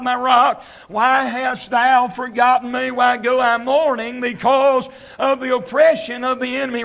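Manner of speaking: driving, rhythmic revival sermon delivery; country preacher pressing each phrase home; preaching. Real, not acted. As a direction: preach it hard, leaning loudly on key words. Resumes preaching after quieter story.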